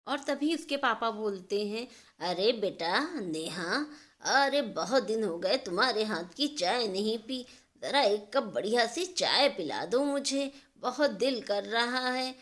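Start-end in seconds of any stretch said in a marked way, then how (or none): 2.2-12.3 fond father. Acted. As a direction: ask sweetly for a cup of her tea. Father asks daughter for tea.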